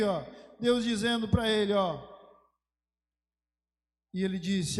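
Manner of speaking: normal talking voice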